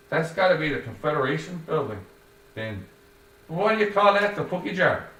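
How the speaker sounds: grudging guess, then puzzled; joyless Joey. A narrator's reading. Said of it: "without joy".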